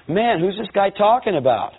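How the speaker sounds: a jolt of alarm, thinking it to himself; startled inner thought. Retold or imitated. In the balcony, realizing the preacher means him, startled.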